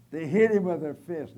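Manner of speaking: loud, punched-out preaching line; preaching shout. Real, not acted. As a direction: slam the words down. Preacher dramatizing the beating.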